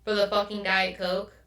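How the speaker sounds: understated retold exasperation; annoyed. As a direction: grumble like irritated passengers, dragging the last question. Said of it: "they're annoyed".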